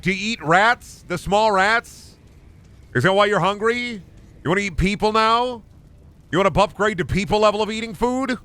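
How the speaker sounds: high-pitched incredulous questioning; mock interrogation. Mock interrogation of the game monsters.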